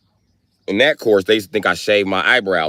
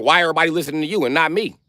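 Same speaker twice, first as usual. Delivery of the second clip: mama complaining; 6 semitones higher, faster than usual. Retold or imitated. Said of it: "your mama be like".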